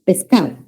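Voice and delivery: pescado as pescao, D dropped. Shown as a demonstration. Teacher imitating fast speech. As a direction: run pescado together without the D. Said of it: "Él habla rápida".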